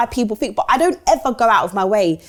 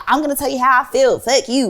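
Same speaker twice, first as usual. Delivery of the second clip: put-on quick, slightly raised American accent; 4 semitones higher than usual. Host imitating blunt Americans for the guest, mock American accent. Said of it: "What was that accent?".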